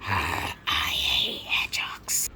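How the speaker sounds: very low, slow whispery demon. Acted. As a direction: rasp it slowly like a demon. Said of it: "Is that a demon or what?".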